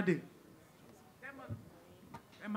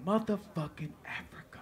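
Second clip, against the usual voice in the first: soft reverent whisper; awed whisper; 9 dB quieter than usual. Real, not acted. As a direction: breathe the word like a treasure. Awed whisper about Africa.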